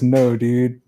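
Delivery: flat, deadpan monotone. Retold or imitated. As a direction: say it flat with no tune. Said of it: "With his monotone voice".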